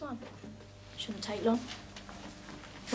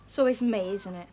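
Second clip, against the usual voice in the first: loud complaint of unfairness; aggrieved protest; 3 semitones lower, 3 dB louder than usual. Acted. Pupil complaining to the teacher, aggrieved. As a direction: protest at being singled out.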